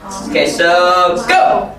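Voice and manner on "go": high shout to start the game; calling out. Real, not acted. Teacher starting Marco Polo, high call. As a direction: call it out sharply, pitched way up.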